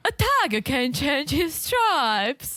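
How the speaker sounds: slow, put-on imitation accent; Colin's accent. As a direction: show off a put-on accent, drawn out. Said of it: "do Colin's accent from the previous".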